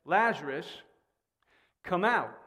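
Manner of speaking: firm, measured retold command. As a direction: summon firmly, pausing after the name. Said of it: "shouted it with a loud voice of command".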